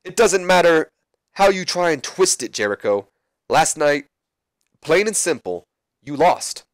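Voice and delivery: lightly voiced Rock, taunting his rival. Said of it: "and Rock says".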